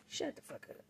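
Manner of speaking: mock snap. Telling ex off.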